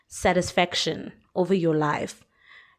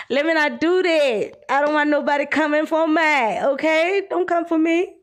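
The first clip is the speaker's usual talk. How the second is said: high, giggly playful warning; laughing warning; 7 semitones higher, 3 dB louder than usual. Real, not acted. Vlogger laughing as she warns commenters off. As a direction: tease them while laughing.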